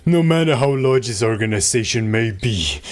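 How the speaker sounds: slow, theatrical menace; grandiose dark overlord. Acted. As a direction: proclaim doom with grandeur.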